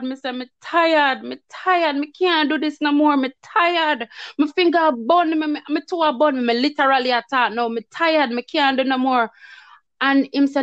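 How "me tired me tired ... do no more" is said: higher, whining plea of exhaustion; mock-plead with God that you can't go on; retold tired complaint. Shoveling snow, begging God to let her stop, higher whine. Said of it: "and me still a complain".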